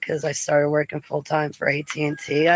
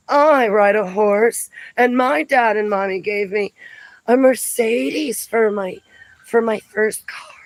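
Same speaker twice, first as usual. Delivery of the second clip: mocking rich girl; 5 semitones higher than usual. Woman mocking popular girls' car brags, high snobby voice.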